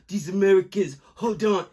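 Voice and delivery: lightly put-on Brazilian accent; a hint of a Brazilian accent; mock Brazilian English; Neymar impression. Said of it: "That's my Neymar impression".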